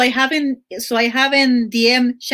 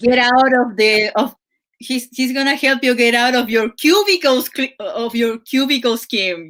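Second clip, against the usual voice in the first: mock New Jersey MLM pitch; a lightly voiced New Jersey life coach; New Jersey accent. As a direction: sell the escape like a Jersey guru. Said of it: "you chose, like, the New Jersey accent".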